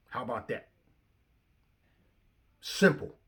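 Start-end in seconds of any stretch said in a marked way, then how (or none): 2.6-3.1 emphatic simple. Real, not acted. Second "Simple" louder.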